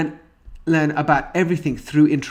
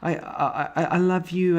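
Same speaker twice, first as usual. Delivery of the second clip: higher-pitched soothing mother voice; retold motherly concern, pitched up; imitating a doting mother; 5 semitones higher than usual. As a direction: fuss tenderly over an upset baby. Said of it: "she's back and she's like".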